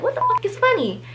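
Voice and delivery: high mock snap, swear left in; mock angry retort. Offended friend cursing at the laughing sisters, high mock snap. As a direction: repeat her line as she really said it, high and cutting.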